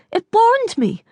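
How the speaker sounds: high, thick-tongued complaint; swollen tongue. Acted. Mother telling Ryan the juice burned her, swollen-tongued. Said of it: "your tongue is swollen".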